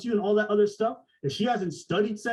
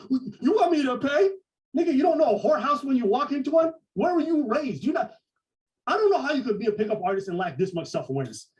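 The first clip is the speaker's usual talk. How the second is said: mock outrage; 5 semitones higher, 3 dB louder than usual. Voicing indignant reply in story.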